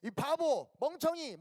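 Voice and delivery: mock insults, pitched high; acted bully's taunt; name-calling. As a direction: hurl playground insults one by one. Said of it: "막 욕하는데".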